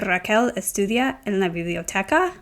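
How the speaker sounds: "Raquel estudia en la biblioteca" with the voice rising at the end; rising question tune. Shown as a demonstration. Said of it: "my voice goes up at the end".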